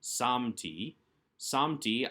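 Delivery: "samti", weight on the opening "sam"; first-syllable stress. Shown as a demonstration. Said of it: "accent on the first syllable".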